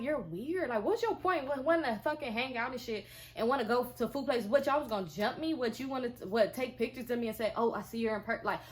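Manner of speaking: indignant retold rant, mildly heated; mad, retold confrontation. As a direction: fire off accusing questions, a touch angry. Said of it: "I was so mad".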